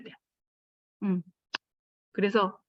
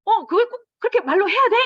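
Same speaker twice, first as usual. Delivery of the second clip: high, loud exasperated protest; hurt, rising indignation; indignant retort; 9 semitones higher, 6 dB louder than usual. Retold or imitated. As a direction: snap back, offended and fed up. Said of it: "속에서 화가 나거든요".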